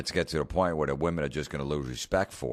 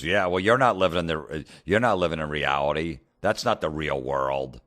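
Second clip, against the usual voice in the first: retold heckler's yell; 5 dB louder than usual. Woman in the front row heckling the comedian, mock yell. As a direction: imitate a woman yelling out a correction. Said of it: "She just yells that out".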